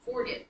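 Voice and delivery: "forget" with the beat flipped onto FOR; accent the FOR in "forget", not the "get"; stress on first syllable. Shown as a demonstration. Teacher shows class a wrongly flipped accent, stressing FOR in "forget". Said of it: "accented the first syllable".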